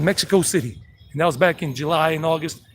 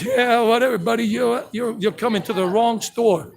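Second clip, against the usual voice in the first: tough-guy retort; 2 semitones higher, 3 dB louder than usual. Retold or imitated. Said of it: "I'm like".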